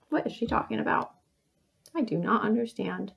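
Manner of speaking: soft, puzzled thinking aloud; hushed puzzlement; acting confused. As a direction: play baffled, quietly to yourself. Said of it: "you're a little confused".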